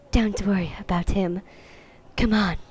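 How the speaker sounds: lightly whispered coquette. Acted. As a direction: half-whisper it, brushing him off.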